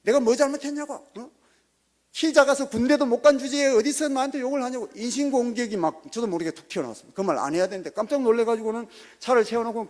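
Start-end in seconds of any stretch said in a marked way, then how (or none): 0.0-4.9 higher, louder insulting yell; retold shouting. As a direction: fire the insult off loud and high. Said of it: "입에서는 큰 소리가 막 나오면서". (키 작다고 놀리며 높고 큰 소리로 고함)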